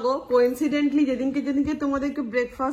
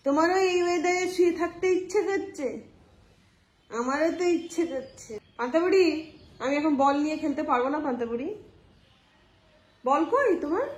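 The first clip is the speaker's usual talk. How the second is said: higher, fond voice for the dog; pet talk; 3 semitones higher than usual. Real, not acted. Talking fondly to the lazy dog Panta.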